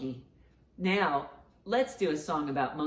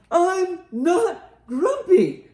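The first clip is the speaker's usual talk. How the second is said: slow, high, loud drawn-out yell; read-aloud shout; 11 semitones higher, 7 dB louder, much slower than usual. A narrator's reading. Grumpy monkey yelling at his friends, slow and loud. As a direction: bellow it while pounding your chest. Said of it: "shouted Jim as he beat his chest".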